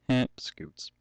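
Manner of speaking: soft whispered heh, Scoots; a little private snicker under the breath; whispered chuckle. Real, not acted. Amused aside to himself.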